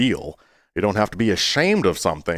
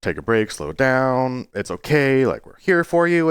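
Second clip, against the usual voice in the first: mocking comforter; 5 semitones higher than usual. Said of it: "not to ever say".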